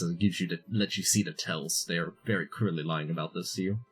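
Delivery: normal talking voice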